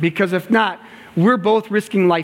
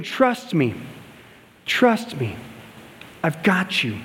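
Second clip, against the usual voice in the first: soft reassurance; 3 semitones lower, 4 dB quieter, slower than usual. Retold or imitated. Coach reassuring gymnast.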